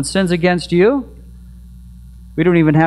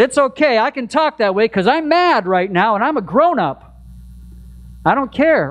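mock angry grown-up; 6 semitones higher than usual. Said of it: "turned around and said".

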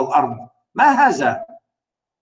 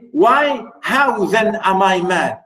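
mock pleading narrator; faster than usual. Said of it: "He wants to say".

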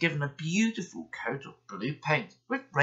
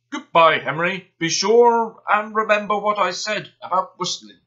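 smug engine; 5 semitones higher, 9 dB louder than usual. Acted. Gordon calling out smugly.

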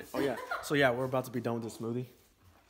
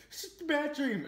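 imitating scared girlfriend; 11 semitones higher than usual. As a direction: play her half-awake and rattled. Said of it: "She goes".

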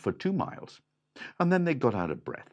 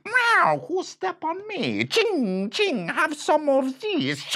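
very high loud cat voice; angry cat; 7 dB louder, slower than usual. A narrator's reading. Cat stepped on, high and loud. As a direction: meow and hiss it. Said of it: "the cat".

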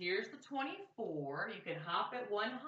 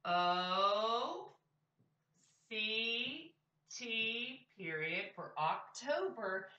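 slow spelling; much slower than usual. Shown as a demonstration. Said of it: "Are you ready?".

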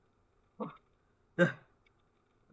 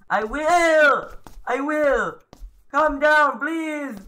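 high, loud pleading yell; frantic high-pitched reply to a threat; panicked yelling; 9 semitones higher, 5 dB louder, much slower than usual. Real, not acted. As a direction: plead loudly in a high, rattled voice. Yelling back at game's threat.

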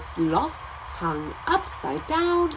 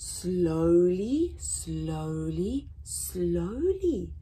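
long, drawn-out storybook slowly; reading to children; slow refrain; 3 semitones lower, much slower than usual. A narrator's reading. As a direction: stretch each word lazily.

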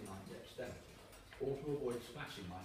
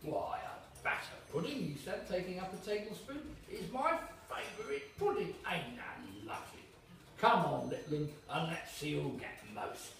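greedy waiter; 3 semitones higher than usual. Acted. Waiter claiming the pudding.

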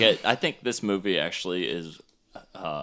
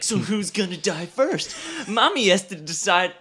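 mock killer taunt; 11 semitones higher, 6 dB louder than usual. Quoting masked killer, amused.

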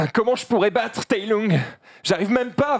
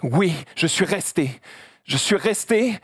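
emotional panda. Acted. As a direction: open up, half laughing. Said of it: "je fais le panda". (panda ému)

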